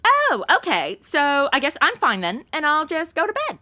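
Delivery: dry, mock-cheerful resignation; sarcastic. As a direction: say it with heavy sarcasm. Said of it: "she said sarcastically".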